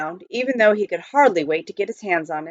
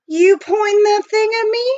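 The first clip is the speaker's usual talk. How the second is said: amused question; 13 semitones higher, 5 dB louder than usual. Acted. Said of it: "the reformed road agent laughed".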